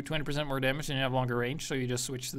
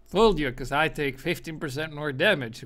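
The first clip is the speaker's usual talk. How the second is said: mocking taunt; 6 dB louder than usual. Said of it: "But it's like".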